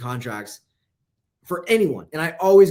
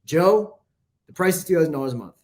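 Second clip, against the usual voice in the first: confident; 2 semitones higher than usual. Shown as a demonstration. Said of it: "just say".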